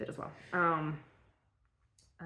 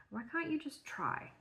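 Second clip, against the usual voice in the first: calm; 8 semitones higher, 7 dB quieter than usual. A narrator's reading. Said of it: "he asked calmly".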